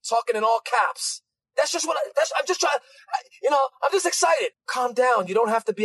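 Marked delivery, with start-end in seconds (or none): 1.6-4.5 higher-pitched, stammering mock defense; flustered excuse. Preacher mimics believer excusing their all-caps zeal, flustered excuse. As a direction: stumble through an excited excuse.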